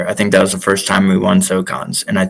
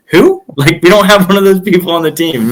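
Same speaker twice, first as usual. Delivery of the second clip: very high-pitched mock bafflement; baffled disbelief; 9 semitones higher than usual. Coach answering an athlete's garbled name for his partner, baffled disbelief. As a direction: imitate an incredulous coach, pitched way up.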